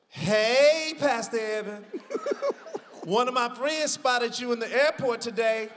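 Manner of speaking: reading her text in a loud, excited churchy voice; Cheryl's voice. Retold or imitated. Church member teasing her pastor by text, loud and giddy. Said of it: "Say it in her voice".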